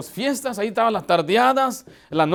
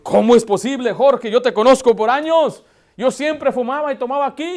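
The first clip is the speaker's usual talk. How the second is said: louder, indignant cousin's protest; offended protest; 3 semitones higher, 5 dB louder than usual. Retold or imitated. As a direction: play the cousin stung by the refusal. (primo ofendido que protesta en voz más alta)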